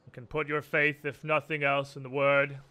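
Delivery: grave, formal church leader; solemn priest. Acted. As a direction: speak with calm clerical authority. GM voices the Archbanker.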